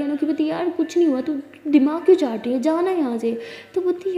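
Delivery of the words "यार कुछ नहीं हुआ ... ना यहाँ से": louder, higher, shoo her away; fed up, telling a friend to leave; irritated. Acted. Anokhi telling her nagging friend to go away, irritated.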